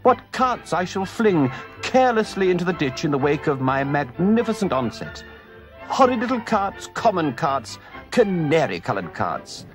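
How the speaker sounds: high, swooning ecstatic toad; rapture. Acted. Toad rhapsodizing to his friends, ecstatic. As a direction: gush over the joy of motoring. Toad raving about motoring.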